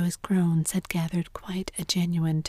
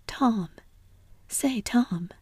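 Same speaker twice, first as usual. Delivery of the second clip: higher-pitched call of the name; calling to rouse someone; 5 semitones higher, much slower than usual. Acted. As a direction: call out to wake him. Sid calls to rouse Tom.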